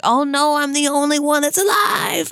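mock panic. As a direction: play at a lone survivor's panic. Acting out the lone survivor's panic.

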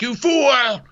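shouting at her in a fury, then sinking into a warning; angry rant. Retold or imitated. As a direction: play a furious king scolding her. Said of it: "So he's like".

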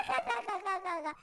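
mock kids' laughter; risa burlona imitada. Los morros se rieron. (risita burlona imitada)

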